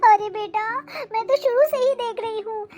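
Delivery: a mild, understated weepy plea to her son; tearful complaint. Acted. Mother reproaches her son for blaming her, mildly tearful. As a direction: complain through held-back tears. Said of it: "तू क्यों इतना रो रही है".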